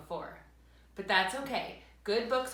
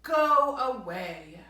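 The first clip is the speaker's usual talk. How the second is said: stern go away; 8 dB louder, much slower than usual. Acted. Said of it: "Bear said".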